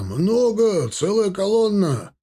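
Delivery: high, urgent lookout call; warning cry. A narrator's reading. Lookout spotting a whole column, high warning cry. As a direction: call down the enemy's numbers. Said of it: "донёсся крик со второго этажа".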